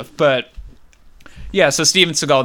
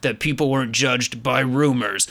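gruff voice. Retold or imitated. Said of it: "he does, like, a gruff voice".

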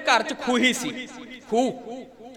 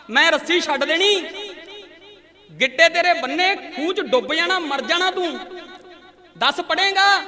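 higher, raised threatening shout; father's threat; 4 semitones higher than usual. Retold or imitated. Furious father shouts threats down the well at his son. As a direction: threaten the boy, pitch climbing to the last question.

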